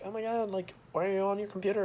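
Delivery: a mild mock of mom scolding. Son imitating his mom scolding him about the computer. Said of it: "she screamed at me".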